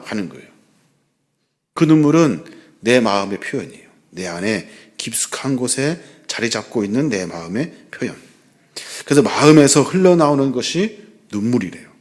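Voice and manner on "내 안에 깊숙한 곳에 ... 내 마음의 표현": whispered, drawing the flock close; hushed, intimate whisper. Real, not acted. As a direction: breathe it out like a secret. Intimate point about inner heart.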